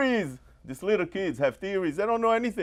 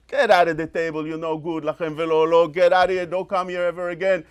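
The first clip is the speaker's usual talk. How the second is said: angry father; faster than usual. Retold or imitated. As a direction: throw the kid out from the table. Father throwing out the child.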